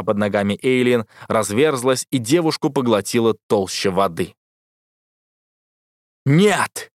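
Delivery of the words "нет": громкий высокий вопль отчаяния; крикнуть «нет» изо всех сил; отчаянный крик. A narrator's reading. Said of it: "этот возглас разодрал моё горло". (герой видит, как тонет Эйлин: отчаянный крик)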